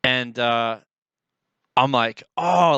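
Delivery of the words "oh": louder excited "oh" of recognition; getting excited. Retold or imitated. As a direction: retell a rush of growing excitement. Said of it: "like, I'm getting excited".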